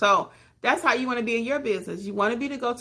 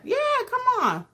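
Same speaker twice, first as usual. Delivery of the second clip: much higher, hyped-up come-on; pushy salesman. Retold or imitated. Other channels pressuring beginners, higher hyped voice. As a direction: lure them in like a pushy recruiter. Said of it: "they're like".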